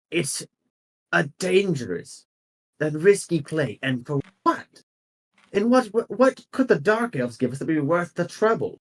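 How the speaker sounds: indignant objection. Acted. Council member objecting to plan.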